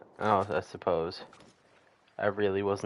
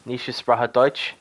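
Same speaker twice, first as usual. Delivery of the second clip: slow halting German; 2 semitones higher, 5 dB louder, slower than usual. Pretend. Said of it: "how do I say it?".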